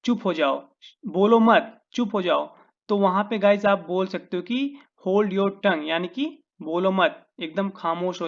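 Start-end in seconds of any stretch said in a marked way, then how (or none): 0.0-2.6 stern order. Shown as a demonstration. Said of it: "जैसे मैं बोलूँ कि चुप हो जाओ".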